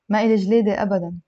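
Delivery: fluent, connected model reading; slightly brisk sentence for learners. Shown as a demonstration. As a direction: run it together in one go. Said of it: "I'll read it a little bit faster".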